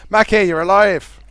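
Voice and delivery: high, loud, slow happy cry; excited. Real, not acted. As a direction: cheer a friend coming back. Teammate reconnects after dropping.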